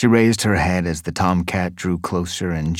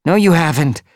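much higher, louder, angry retort; angry she-cat; 10 semitones higher, 7 dB louder than usual. Acted. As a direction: snap back in anger at him. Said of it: "eyes flashed with anger".

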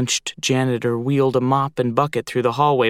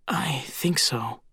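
whispering; 3 semitones higher, 7 dB quieter, slower than usual. A narrator's reading. Cautious reply near danger.

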